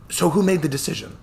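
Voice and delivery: put-on chuckling old attorney, light Scottish touch; cheerful old Scottish lawyer.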